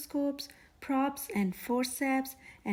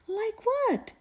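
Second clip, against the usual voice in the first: eager; 10 semitones higher, 3 dB louder than usual. Acted. Child asking eagerly.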